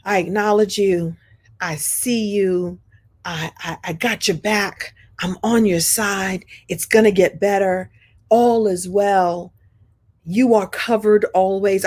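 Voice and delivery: tender reassurance. Retold or imitated. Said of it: "always it meant".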